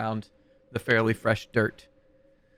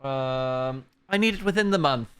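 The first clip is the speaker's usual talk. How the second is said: abbot voice; 3 semitones higher than usual. Acted. Abbot demands wedding dress.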